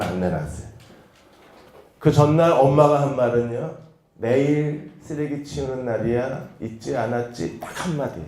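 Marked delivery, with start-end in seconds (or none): 4.1-7.6 sweet mother's casual reminder; said with a smile. Retold or imitated. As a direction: remind the child kindly, unhurried. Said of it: "웃으면서".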